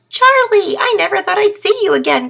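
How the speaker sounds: high, loud, overjoyed call; a brother thrilled to find him; excited cry. A narrator's reading. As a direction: turtle crying out in happy surprise. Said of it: "cried Wyatt".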